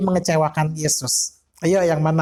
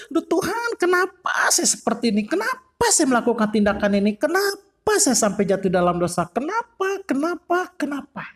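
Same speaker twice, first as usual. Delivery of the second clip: high pleading cry to God; anguished lament; 8 semitones higher than usual. Acted. Preacher voicing a remorseful sinner crying to God, anguished. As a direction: plead why again and again, fading.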